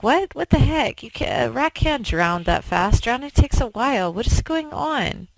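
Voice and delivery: high, stunned mock outburst; shocked disbelief. Scientist finding his drowned rat, high shocked disbelief. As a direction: squeak it out like a baffled scientist.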